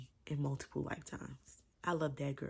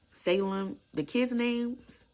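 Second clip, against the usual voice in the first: excited gush; 8 semitones higher, 6 dB louder, slower than usual. Real, not acted. Gushing about character names.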